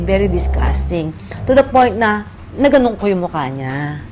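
ordinary delivery

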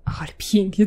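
whispered "pięknie" in delight. Real, not acted. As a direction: whisper it in awe. Admiring the dramatic scene. (szept zachwytu)

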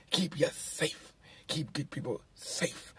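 slow, hushed mock slogan with safe leaned on; parroting the movie's safe, slow and breathy; mocking the film's line. Mocking the film's heroes to viewers, slowly stressing safe. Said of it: "emphasizing the word safe".

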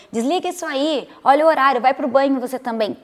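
mock nagging wife; bossy order. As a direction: boss the husband like a child. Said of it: "empurrar ele pro banho".

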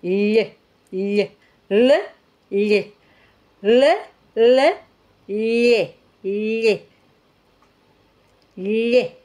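"L" alternating squashed palatal lle and plain tip l; lh against L. Shown as a demonstration. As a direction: switch between lle and le in separate pulses. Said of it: "aplasto la lengua".

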